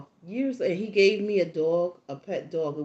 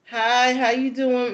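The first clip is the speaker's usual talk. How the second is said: put-on polite boy greeting; 5 semitones higher, 9 dB louder, slower than usual.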